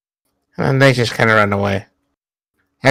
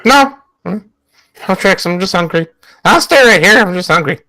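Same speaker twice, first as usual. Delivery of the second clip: higher-pitched pleading as the otter; urgent protest; 6 semitones higher than usual. Acted. Hungry otter promising the captor no tricks, urgently pleading. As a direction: protest your innocence, jumping up in pitch.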